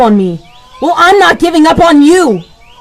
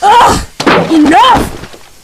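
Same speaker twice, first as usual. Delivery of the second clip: usual speaking voice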